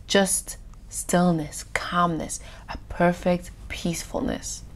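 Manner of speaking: hushed stillness. Shown as a demonstration. Preacher picturing a glassy sea to listeners, hushed. Illustrating a sea without ripples.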